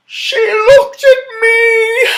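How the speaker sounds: high, loud, slow gasping cry; high excited shout. Acted. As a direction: cry it out in amazement. Gasping excited story character.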